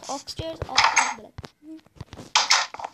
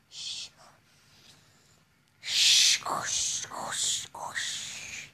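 shushing; much slower than usual. Real, not acted. Player shushing while sneaking past mobs. Hushing in game.

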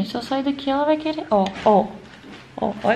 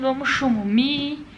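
put-on baby talk; slower than usual. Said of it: "Igual fala pro netinho".

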